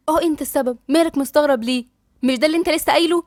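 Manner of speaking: mildly exasperated challenge; indignant retort. Acted. Couple's acted quarrel in restaurant.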